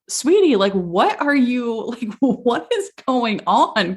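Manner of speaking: drawn-out retold disbelief; baffled husband. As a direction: imitate a partner gently at a loss. Retold baffled husband questioning her.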